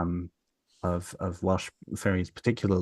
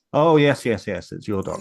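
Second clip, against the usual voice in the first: hasty agreement; 7 dB louder than usual. Retold or imitated. Farmer handing over the berserk dog, hasty agreement. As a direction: give in at once, hammed up.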